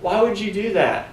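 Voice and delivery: high, pleading outburst of anger; a high, frustrated cry of why; exasperated angry why. Retold or imitated. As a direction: throw up your hands: why would you. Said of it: "I'm just so angry".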